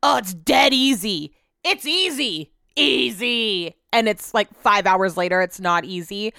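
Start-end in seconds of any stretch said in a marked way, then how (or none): 0.0-3.8 lightly mocking guys who shrug off a job; breezy know-it-all guy. Wife imitating husband and dad dismissing chores, breezily overconfident. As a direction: imitate a man insisting it's nothing. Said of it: "guys being like".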